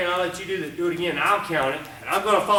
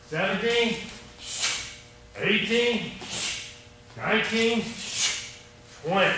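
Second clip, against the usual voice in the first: counting kata; 6 semitones higher, slower than usual. Shown as a demonstration. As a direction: call each count as you do the move. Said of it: "I'm gonna count it".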